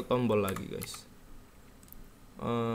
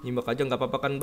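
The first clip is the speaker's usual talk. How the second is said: ordinary talk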